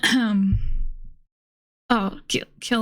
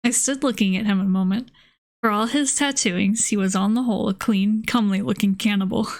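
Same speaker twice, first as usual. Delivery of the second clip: measured audiobook-style reading, even pitch; story narration. A narrator's reading. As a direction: read the old novel aloud evenly. Reads a novel aloud.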